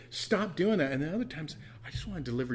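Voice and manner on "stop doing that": bold and blunt. Retold or imitated. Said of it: "be bold and blunt and say".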